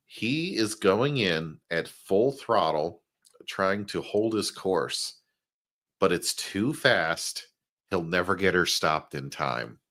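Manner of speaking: slow, measured read-aloud; slow, deliberate narration with pauses; dramatic caption reading. Acted. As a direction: draw out each phrase of the caption. Reads a comic caption aloud.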